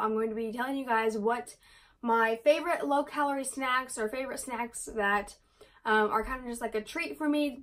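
breathless rushed talking; running out of air mid-sentence; out of breath. Real, not acted. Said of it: "I'm getting out of breath".

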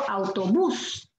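"Autobús" said slowly, the stress on bús; slow model. Shown as a demonstration. Teacher introducing the next word to class, slowly. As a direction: slowly sound out "Autobús" for the students. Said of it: "models word".

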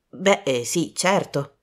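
hesitant, unsure agreement; a bit doubtful. Acted. Michael unsure of Poirot's plan, mildly doubtful. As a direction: hedge it. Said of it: "un po' dubbioso".

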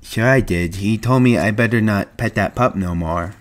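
lightly voiced childlike simpleton; Lenny.

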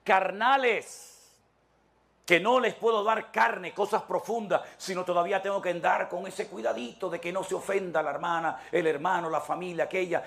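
Paul scolding immature believers; stretched, chiding apostle's words; voicing the apostle Paul. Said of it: "que les dice".

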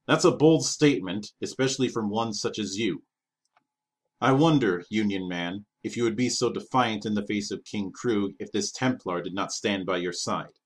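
scornful, swaggering challenge from a warlord; mocking pirate king. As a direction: taunt the little envoy, savouring it. Pirate king mocks envoy.

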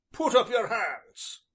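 hoarse demand. A narrator's reading. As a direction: force it out hoarsely as an angry smith. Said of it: "repeated Black George hoarsely".

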